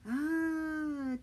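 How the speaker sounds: high, loud short cry of fear; a sharp scared yelp; a child's frightened shriek; pained cry. Acted. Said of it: "Teddy cried".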